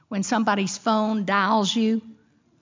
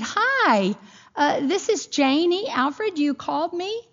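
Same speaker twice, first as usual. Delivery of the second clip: higher, sweet phone voice; 6 semitones higher than usual. Retold or imitated. Retold phone greeting, raised pitch.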